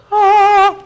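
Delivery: high, loud "Ah" of amazement; a sudden wow at first sight; awed gasp. Retold or imitated. Recalling Majora walking in, an awed "Ah". A wow moment meeting her.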